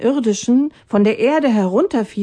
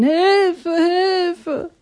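people screaming for help; 10 semitones higher than usual. Acted. Thirsty people crying to Atanga, high mock cry. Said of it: "Bald begannen sie laut zu schreien".

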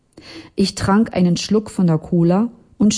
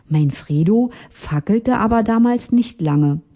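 ordinary delivery

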